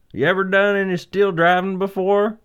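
high, loud foreman voice; gruff foreman. Acted. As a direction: call out like a doubtful foreman. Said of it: "the foreman asked".

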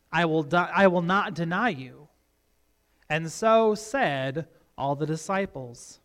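emphatic, measured Bible reading with swelling key words; scripture reading. Acted. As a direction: read the Gospel aloud dramatically to a congregation. Reads scripture aloud.

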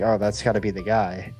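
ordinary talk, nothing marked

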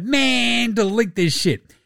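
high, drawn-out complaint; mock appalled protest. Player objecting to the sponsor's post, mock appalled protest. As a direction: wail it in mock dismay.

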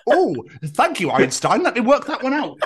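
mock-grateful and sarcastic; hammed-up sarcastic praise. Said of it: "rather than".

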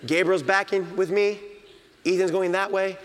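usual speaking voice

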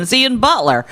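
Ohio accent. Shown as a demonstration. Showing the other way to say the name, Ohio accent. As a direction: say it like an Ohioan. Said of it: "I'll do the Ohio accent".

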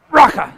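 "Raka" spat loudly, hacking up a loogie on the "ka"; guttural spat insult. Shown as a demonstration. Preacher demonstrating an ancient term of disgust, "Raka" spat out loudly. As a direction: hit the second syllable of "Raka" hard, throat-clearing and loud. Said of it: "conjure up a loogie while you're saying it".

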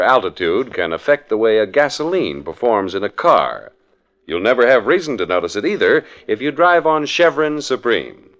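smooth radio announcer pitching gasoline; ad read. Acted. Announcer selling Chevron gasoline to listeners, in a smooth ad read. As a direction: sell it like a fifties radio spot.

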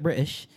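"British" said lazily, sliding towards Australian; lazy Aussie pronunciation. Shown as a demonstration. Showing how English turns Aussie, "British" said lazily. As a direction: let "British" go slack and lazy. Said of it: "then get real lazy with it".

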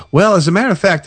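high, bright-eyed as a matter of fact; excited realization. Retold or imitated. Nikki realizing the pig reading fits, high and excited. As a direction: voice jumps up as it dawns on her. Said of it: "And she goes".

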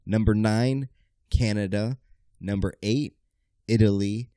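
building game-show countdown; countdown announcer. Acted. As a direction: announce it like a top ten list.

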